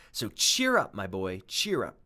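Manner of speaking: jolly encouragement; cheery centipede. Acted. Centipede cheering up the scared boy, lightly hearty. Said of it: "the centipede said".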